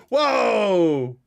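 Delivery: a laughing gasp of delight; high delighted exclamation; amazed whoa. Real, not acted. Seeing a dog photo.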